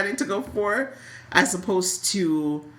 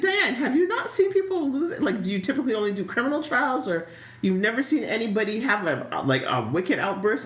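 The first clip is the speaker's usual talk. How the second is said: mock question to Diane; 4 semitones higher than usual. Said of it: "it's like".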